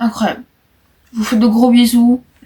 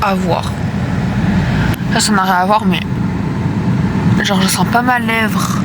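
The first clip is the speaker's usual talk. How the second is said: in pain after surgery, slurred; weak after surgery. Real, not acted. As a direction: numb lip, pained speech. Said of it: "j'ai envie de pleurer".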